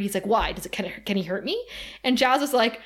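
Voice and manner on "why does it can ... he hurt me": lower, softer hesitant questions; mildly worried. Retold or imitated. Xander asks if the demon can hurt him, understated worry. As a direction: stumble into the question, dropping the voice.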